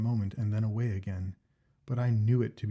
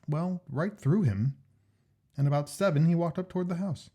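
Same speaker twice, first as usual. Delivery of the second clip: higher, eager Jack; Jack's voice; 4 semitones higher, 4 dB louder than usual. Acted. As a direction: voice the keen friend Jack, pitched up. Jack tells of the ghost.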